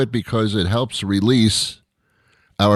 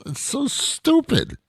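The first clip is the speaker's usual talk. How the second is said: amused; slower than usual. Real, not acted. Laughing at silly curse words.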